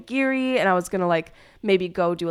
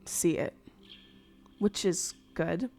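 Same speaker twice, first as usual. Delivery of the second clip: whispering; 8 dB quieter, slower than usual. Real, not acted. Muttering aside to herself.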